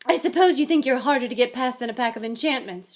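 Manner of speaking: loud, angry telling-off; storming. A narrator's reading. McGonagall catching students by the door, storming. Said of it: "she stormed".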